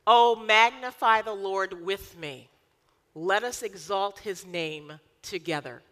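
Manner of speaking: preacher's ringing call; proclaiming. Acted. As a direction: call the room to praise, slowly and loud. Proclaiming psalm to congregation.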